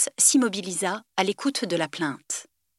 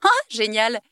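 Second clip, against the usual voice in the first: exclaiming; 5 semitones higher, 4 dB louder than usual. A narrator's reading. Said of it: "s'exclama le jeune homme".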